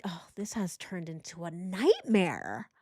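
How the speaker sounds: slow, drawn-out sneering whine; mock his self-pity, stretch it out. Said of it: "No, he's like".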